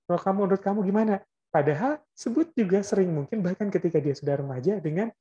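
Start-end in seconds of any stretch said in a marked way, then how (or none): 0.0-1.2 higher, louder, fast parent's call to Abdul; parent calling by name. Retold or imitated. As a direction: rattle off a quick question to the child. (orang tua memanggil anak dengan namanya, cepat dan keras)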